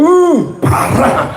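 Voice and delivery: high, drawn-out "uh" of dismay; exaggerated disapproval. People judging a stingy person, exaggerated dismay. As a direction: react as if appalled, slow and high. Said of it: "kita ngomong".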